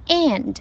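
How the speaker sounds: and with a full open "a"; slow, clear and with the vowel of cat; correct vowel. Shown as a demonstration. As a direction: model and, stretched out. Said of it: "不是end".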